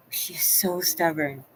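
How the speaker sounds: slow breathy whisper aside. Real, not acted. Aside to viewers about the dog, whispered. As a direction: whisper it so she won't hear.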